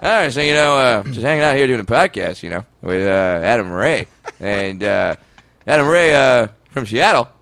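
deadpan it like Norm; Norm Macdonald impression. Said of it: "when I do Norm Macdonald".

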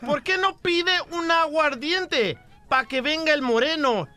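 a touch of huffy bartender, slow; mock angry bartender. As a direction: play the offended bartender, lightly. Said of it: "dice el cantinero enojado".

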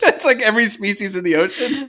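giggling as she talks, pitch jumping high; laughing through words. Real, not acted. Cohost laughing off the vague teaser hint, giggling. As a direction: laugh out the words at your own silly hint.

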